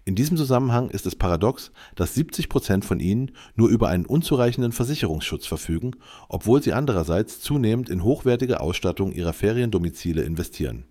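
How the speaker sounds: AI-generated news read; steady computer newsreader voice; synthetic voice. Real, not acted. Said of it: "mit der synthetischen Stimme". (synthetische Nachrichtenstimme)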